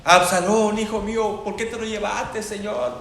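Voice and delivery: mock dramatic wail for a lost son; hammed-up mourning cry; Mexican-style wailing. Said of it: "me imagino un llanto a la mexicana".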